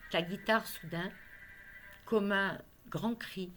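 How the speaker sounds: emphatic poetry reading, phrase by phrase, with pauses; poem recitation. Acted. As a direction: declaim the verses, swelling on key phrases. Recites her guitar poem.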